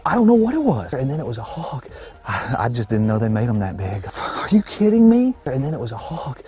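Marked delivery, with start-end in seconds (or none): 0.1-0.9 high, loud, amazed outburst; bewildered excitement. Real, not acted. Hunter baffled by the beast in the shadows, bewildered excitement. Bewildered by the animal just shot. 4.1-5.3 high, loud, drawn-out disbelief; incredulous. Real, not acted. Hunter stunned they made them that big, incredulous.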